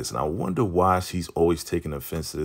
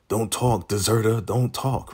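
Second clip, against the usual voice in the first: imitated stern order; 5 semitones higher than usual. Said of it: "she's acting like she's down with".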